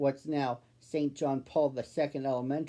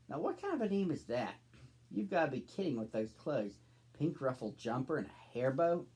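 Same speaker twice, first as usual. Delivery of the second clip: snooty; 5 dB quieter than usual. Acted. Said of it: "wasn't exactly friendly".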